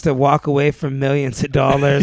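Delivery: loud, incredulous sarcasm; mock the claim with loud fake agreement; sarcastic. Real, not acted. Ridiculing those who call the worker cartel, loud and sarcastic.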